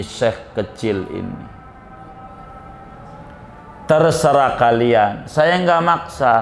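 lightly voiced leader, slow and measured; solemn boss addressing followers. Boss to his henchmen, solemn farewell address. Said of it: "Kata bosnya begini".

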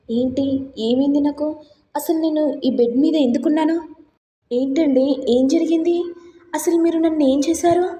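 rising panicked questions; confused alarm. Acted. Woman waking drugged, confused.

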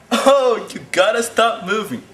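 high, loud fed-up scold; exasperated. Acted. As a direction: huff it out, fed up. Scolding something that moves.

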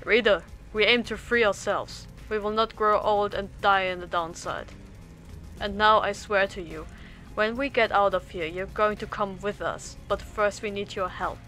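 loud rallying call to a friend. Acted. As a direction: proclaim it like a freedom fighter. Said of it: "Headwind then calls out to you".

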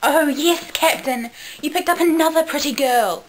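high, loud acted voice; Rose. Rose teasing the Captain about another girl, high and loud. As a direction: pitch it well up and push it out. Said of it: "Rose said".

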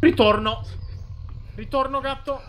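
Ritorno yelled high and loud; panicked shout. Real, not acted. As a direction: cry out Ritorno in a sudden panic. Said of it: "Non ritorno". (Ritorno gridato in preda al panico)

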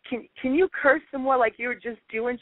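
high, eager Southern lady asking. Retold or imitated. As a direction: ask in a thrilled high tourist voice. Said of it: "she goes".

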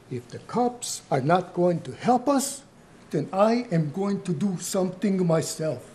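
emphatic, defiant determination; fierce resolve. Acted. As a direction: declare that you will take matters into your own hands. Grandfather recalls his angry resolve.

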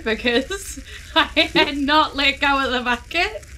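giggling through the words; real chuckling delivery; laughing. Real, not acted. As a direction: laugh it out, amused at yourself. Laughing at own bucket gag.

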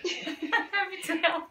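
slow, giggly repeat; amused, laughing quote; laughing echo. Real, not acted. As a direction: savour the line through a laugh. Echoing the show line, laughing.

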